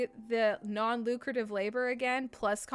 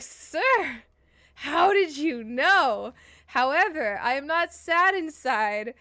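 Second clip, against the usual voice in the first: indignant retort; 6 dB louder than usual. Retold or imitated. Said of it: "And I was like".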